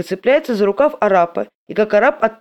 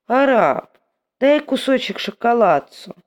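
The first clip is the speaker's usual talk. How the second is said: sweet begging, higher; wheedling tone; 5 semitones higher, slower than usual. Acted. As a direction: coax him for a bite. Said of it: "тянет Федченко умильным тоном".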